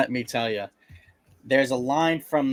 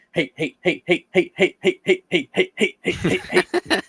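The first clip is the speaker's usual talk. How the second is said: high, louder laughing taunt of hey, climbing higher; gloating heckle; 7 semitones higher, 3 dB louder than usual. Retold or imitated. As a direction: cheer like a gleeful theater heckler. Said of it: "get up in the middle of the theater and just go".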